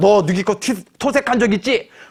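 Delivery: accusing, pressing tone.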